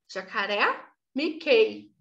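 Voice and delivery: "Jacaré" and "Mickey" set apart, each final vowel sounded clearly; final sound picked out. Shown as a demonstration. Mother showing the sound her son noticed in "Jacaré" and "Mickey", endings picked out. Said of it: "têm um barulhinho do A em inglês".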